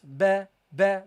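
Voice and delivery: short, bouncing "ba, ba"; bounced ba. Shown as a demonstration. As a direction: release each "ba" with a crisp bounce. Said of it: "You give it a bounce".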